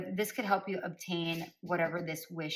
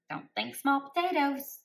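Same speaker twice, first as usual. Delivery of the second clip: spirit's voice again; 7 semitones higher, 4 dB louder than usual. Retold or imitated. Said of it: "recalled spirit message".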